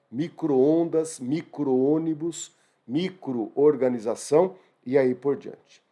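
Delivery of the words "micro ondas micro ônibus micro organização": slow spelled-out words. Shown as a demonstration. Teacher spelling out examples slowly.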